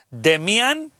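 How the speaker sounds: "Demian" stressed on MI, ending on a rise. Shown as a demonstration. Host showing where the accent goes, "Demian" stressed on I. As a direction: lean on the I in "Demian". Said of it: "con acento en la I".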